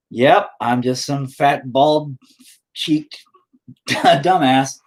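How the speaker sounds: slow, laughing through the words; laughing self-mockery. Real, not acted. Mocking his own looks while laughing. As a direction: drag it out and laugh at yourself.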